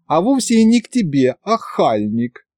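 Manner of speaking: high pouting retort, dropping on the insult; petulant girl's comeback; capricious retort. A narrator's reading. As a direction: snub him like a sulky girl. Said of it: "капризно протянула девушка".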